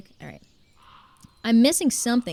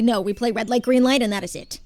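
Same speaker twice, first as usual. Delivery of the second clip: firm, a bit louder, no arguing; firm refusal; 6 dB louder than usual. Retold or imitated. Coach tells the kids firmly which game they play. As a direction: lay down the rule to the kids. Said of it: "I say".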